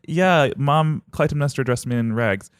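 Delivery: high, keen sister voice; eager Electra. Acted. Sister urging her brother toward revenge, high and eager. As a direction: press him eagerly about revenge.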